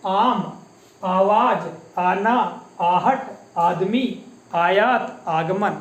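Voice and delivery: आम, आवाज, आना spaced out one by one, each आ open but relaxed; example words. Shown as a demonstration. Teacher showing how आ sounds in everyday words. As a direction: say each आ word calmly, without a jerk. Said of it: "इन शब्दों का उच्चारण हम कैसे करते हैं".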